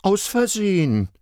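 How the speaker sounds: put-on high child voice; explaining child. A narrator's reading. Little girl explaining to parents, high child voice. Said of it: "erklärte Marla".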